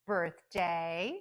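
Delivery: birthday with strong BIRTH and clear day; primary stress on birth in birthday, secondary on day; careful list-reading of birthday; compound noun stress. Shown as a demonstration. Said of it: "extra stress on the first word".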